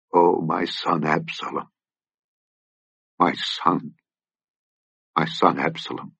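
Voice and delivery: king weeping alone in the chamber; weeping lament. Acted. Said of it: "and wept".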